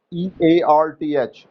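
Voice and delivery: slow letter-by-letter spelling. Shown as a demonstration. Teacher spelling a word for students to write, slow and clear. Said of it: "spelling बोल देते हैं हम".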